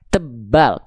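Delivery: ulangi "Tebal" dengan suara tebal; "Tebal" dibaca tebal dan rendah. Shown as a demonstration. ("Tebal" dengan suara tebal)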